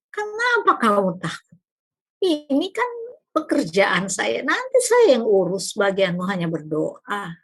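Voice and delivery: God reassuring a weeping servant. Retold or imitated. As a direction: gently chide a frightened servant. God answers the frightened speaker.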